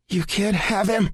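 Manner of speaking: eerily calm. A narrator's reading. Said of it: "in an eerily calm voice".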